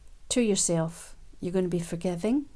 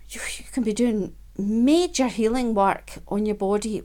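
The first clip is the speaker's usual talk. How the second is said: breathy whisper. Real, not acted. Sudden whisper mid-lesson.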